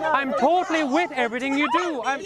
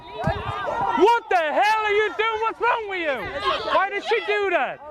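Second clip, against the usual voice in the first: incredulous; 4 semitones higher than usual. Real, not acted. Protester lashes out at him.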